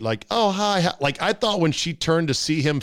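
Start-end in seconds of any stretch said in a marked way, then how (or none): 0.3-0.9 higher, sweet imitated greeting; nice and sweet. Host imitates woman greeting the man filming, nice and sweet. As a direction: imitate a friendly, sweet hello. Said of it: "very nice and sweet".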